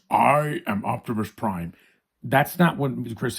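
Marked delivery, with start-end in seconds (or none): 0.1-1.7 slow, commanding robot-hero impression; Peter Cullen's Optimus Prime. Showing viewers the original Optimus, grand slow impression. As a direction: imitate a grand heroic voice, drawn out. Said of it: "at least he has a great voice".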